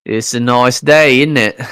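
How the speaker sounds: hammed-up British small talk, drawn out; mock British accent. Chatting with his co-host in a loud, slow put-on British accent. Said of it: "sounds more Aussie than Brit".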